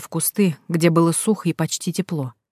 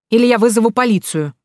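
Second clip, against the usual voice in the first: raised, higher angry threat of police; 5 semitones higher, 4 dB louder than usual. A narrator's reading. Heroine angrily threatens the fortune teller with police. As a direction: threaten her hotly through the door. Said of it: "приходя в ярость".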